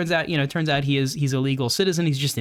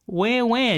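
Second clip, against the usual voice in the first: mock crying; 6 semitones higher than usual. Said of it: "a little violin moment".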